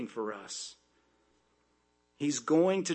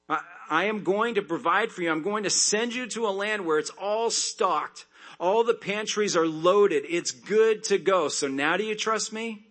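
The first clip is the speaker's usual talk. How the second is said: voicing God promising; 5 semitones higher, 4 dB louder than usual. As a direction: lift the voice as God making a promise. God voiced promising provision.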